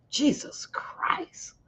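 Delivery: whispered aside under the breath; a whispered exasperated aside. Real, not acted. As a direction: breathe it out, barely voiced.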